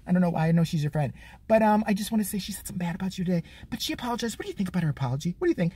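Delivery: put-on soft, coaxing baby-talk interviewer; mock cooing host. CNN host coaxing the kid against Ingraham, soft and sweet. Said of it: "she says something like".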